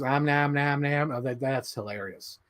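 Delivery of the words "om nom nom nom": slow mock chomping sounds; lightly voiced munching ogre; Shrek munching. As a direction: chew the words slowly like a greedy ogre. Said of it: "he goes".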